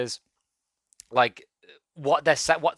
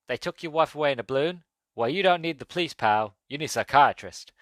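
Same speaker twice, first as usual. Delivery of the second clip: Curtis Mooney; 2 semitones higher than usual. Acted. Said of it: "And Curtis replies".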